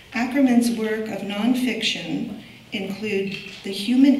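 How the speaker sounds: projected reading of a prepared biography; formal introduction. Real, not acted. Curator introducing a poet to the audience, formal introduction. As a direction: present the honoured guest from a script. Reads speaker's biography from script.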